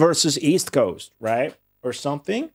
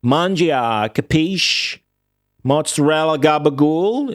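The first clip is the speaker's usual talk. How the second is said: mock Italian-American; 3 semitones higher than usual. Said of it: "What Italian do you speak as an American".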